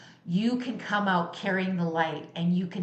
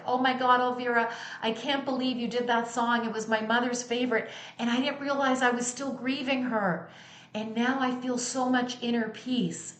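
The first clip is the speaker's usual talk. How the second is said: higher, emotional fan pouring out thanks; moved fan gushing; 4 semitones higher than usual. Retold or imitated. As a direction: imitate a tearful fan gushing with gratitude. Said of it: "running up to me in tears".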